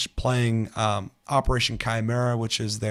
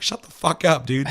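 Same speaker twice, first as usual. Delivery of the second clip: retold angry shout; 4 semitones higher, 5 dB louder than usual. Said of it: "I was like".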